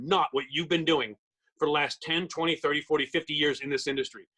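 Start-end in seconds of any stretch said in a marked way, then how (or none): 0.0-1.1 not leaned on, phrase slowed; stress on not. Shown as a demonstration. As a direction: press the word not so it sticks. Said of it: "I wanna emphasize that word".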